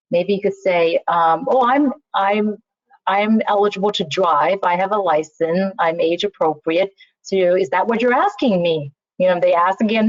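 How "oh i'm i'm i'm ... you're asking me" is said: polite. Shown as a demonstration. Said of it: "It's all in your tone, it's all in your inflection".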